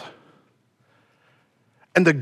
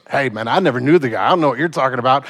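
lower-pitched, offhand brush-off; casual denial; 5 semitones lower, faster than usual. Retold or imitated. Peter denies Jesus to a bystander, low casual denial. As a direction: play it down, disown him casually.

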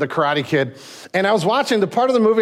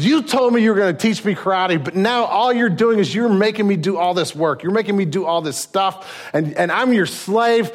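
Daniel confronting Miyagi; 5 semitones higher than usual. Retold or imitated. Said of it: "he kind of confronts him".

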